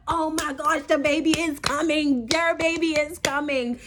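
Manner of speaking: high and loud urgency; urgent. Retold or imitated. Urgent reply to boyfriend.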